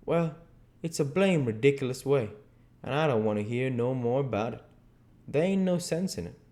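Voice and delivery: lightly voiced dialect grumble; Jim, stubborn. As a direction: dismiss it in Jim's dialect.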